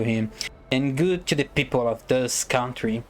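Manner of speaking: speech voice. Acted. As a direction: read it like an orator addressing a prince. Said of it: "let me use a better voice. Prepare for a speech".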